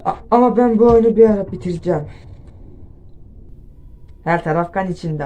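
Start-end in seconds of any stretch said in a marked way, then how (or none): 0.0-2.1 loud, exasperated venting; annoyed, raising the voice; frustrated outburst. Real, not acted. Frustrated after dying in game.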